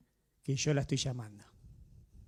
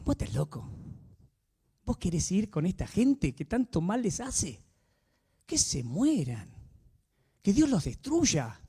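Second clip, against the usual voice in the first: voz del enemigo; 3 semitones higher, slower than usual. Retold or imitated. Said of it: "el enemigo le dijo".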